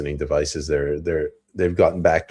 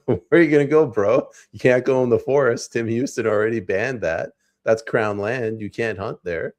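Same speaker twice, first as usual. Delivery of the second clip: bullying official; 4 semitones higher than usual. Retold or imitated. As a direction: push him around like a smug enforcer. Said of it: "they'll be like".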